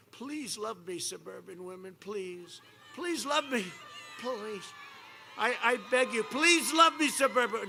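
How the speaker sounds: whining plea that swells toward the end; mock begging. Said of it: "Why are you begging".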